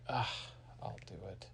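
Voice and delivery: very quiet, resigned grumble; grudging groan. Acted. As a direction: give in under your breath. Harriet grudgingly takes over the errand.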